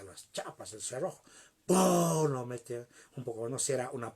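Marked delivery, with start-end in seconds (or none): 1.7-2.3 loud vocal "pum"; golpe imitado. Retold or imitated. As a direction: imitate a door being slammed open. ("pum" fuerte, imitando un golpe)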